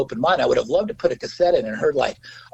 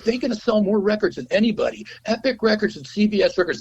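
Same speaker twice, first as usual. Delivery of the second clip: lawyer; 8 semitones higher than usual. Retold or imitated. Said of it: "He goes".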